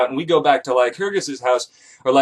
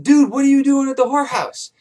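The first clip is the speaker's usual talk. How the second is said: high, disbelieving dude; can't believe he's here; incredulous; 10 semitones higher than usual. Retold or imitated. Narrator finds his buddy at the whorehouse, incredulous.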